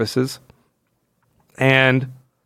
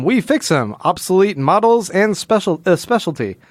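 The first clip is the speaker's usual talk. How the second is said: higher sign-reading voice; raised, announcing read of a sign; 5 semitones higher than usual. Acted. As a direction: lift it like a shop slogan.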